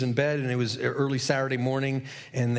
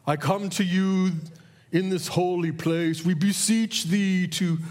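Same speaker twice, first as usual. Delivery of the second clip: higher, louder, slow churchy intoning; slow, lofty mock-preacher prayer; mock pious prayer voice; 5 semitones higher, 3 dB louder, slower than usual. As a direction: ham up a showy holy prayer. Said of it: "they don't talk that way".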